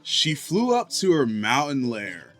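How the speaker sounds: surfer dude voice. Acted. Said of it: "a surfer dude voice".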